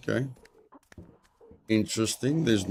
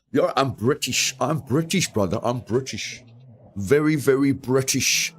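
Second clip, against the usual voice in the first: put-on British accent. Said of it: "Your accent reading needs a bit of work".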